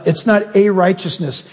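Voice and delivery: "a" leaned on in "not a righteousness"; stress on a. Shown as a demonstration. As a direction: mark "a" as the wrong word. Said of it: "definite article".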